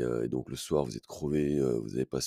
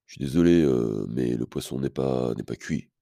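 autoritaire; 4 dB louder than usual. Retold or imitated. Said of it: "d'une manière assez autoritaire".

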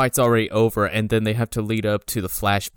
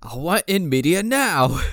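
mock whine; 5 semitones higher than usual.

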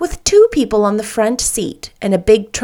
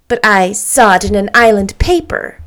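persistent; 4 dB louder than usual. Acted. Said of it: "persisted the fair lady".

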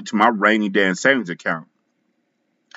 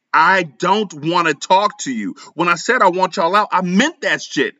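mild yell; 7 semitones higher than usual. A narrator's reading. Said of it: "I yelled".

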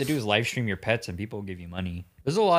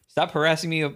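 higher-pitched protest; mock distress; 5 semitones higher than usual. Streamer to man at window, mock distress. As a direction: play the harassed victim, hammed up. Acts streamer shouting at harasser.

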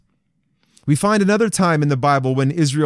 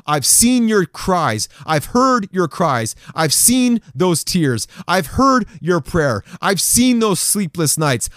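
slow, earnest voice of God comforting; tender promise; slower than usual. Acted. Preacher speaking as God to hurting men, slow and tender. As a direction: lay each line down gently, like a promise.

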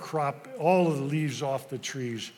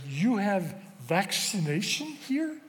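put-on slow, higher, hesitant boy's question; heartfelt broken English; 5 semitones higher, slower than usual. Boy asking the pharmacist about vaccines, slow and hopeful. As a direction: ask it slowly with a tight heart. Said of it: "with a clench in my heart".

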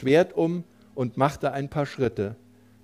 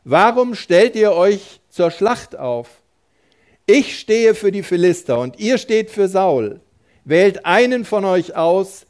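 Goliath calling out; 5 semitones higher, 6 dB louder than usual. A narrator's reading. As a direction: boom the challenge at the enemy army. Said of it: "rief den Israeliten zu".

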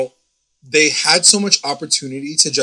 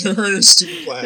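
laughing; 8 semitones higher than usual. Real, not acted. Laughing jab at Veronica.

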